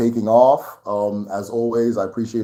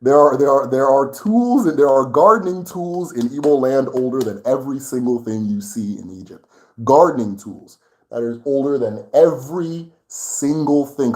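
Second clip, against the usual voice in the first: worked up; 3 semitones higher, 5 dB louder than usual. Real, not acted. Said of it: "I'm getting very worked up about this thing".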